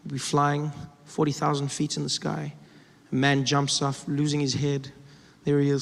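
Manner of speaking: ordinary talk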